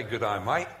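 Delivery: lightly imitated Australian greeting; a touch of Aussie on "Good day, mate"; Australian accent. Preacher contrasting Australians with New Zealanders, light Australian accent. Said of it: "Australia say".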